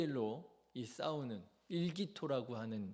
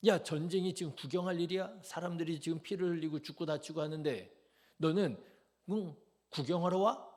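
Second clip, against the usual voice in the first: louder, higher berating brother; angry scolding; 3 semitones higher, 4 dB louder than usual. Retold or imitated. Older brother scolding David for coming to watch, angry. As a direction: tear into him for gawking at the war. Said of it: "다윗을 막 꾸짖는 거예요".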